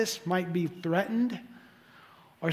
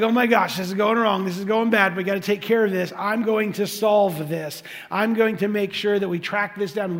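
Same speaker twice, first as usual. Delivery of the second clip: paranoid panic; 3 dB louder than usual. Retold or imitated. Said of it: "his pride turns into paranoia".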